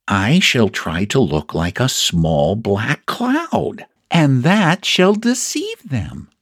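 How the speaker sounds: slow, lightly voiced storybook bear; a hint of a bear reasoning solemnly, rising as he goes; pondering Pooh.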